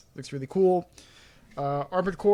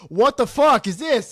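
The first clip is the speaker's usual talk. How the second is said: disbelief; 4 dB louder than usual. Retold or imitated. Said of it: "And it's like".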